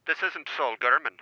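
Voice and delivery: prank caller's shaky Cockney attempt; attempted Cockney accent. Caller posing as Sean from Milton Keynes, attempted Cockney accent. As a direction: pose as a Cockney caller, not very convincingly. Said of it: "I was doing a Cockney accent".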